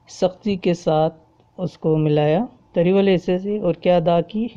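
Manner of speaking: ordinary talk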